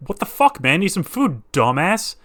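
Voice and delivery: rude body voice. Pretend.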